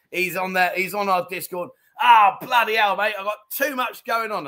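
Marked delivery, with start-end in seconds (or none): 2.0-4.5 put-on loud, higher outburst in a botched Aussie-Kiwi accent; bad New Zealand-Australian accent. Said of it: "the worst New Zealand stroke Australian accent".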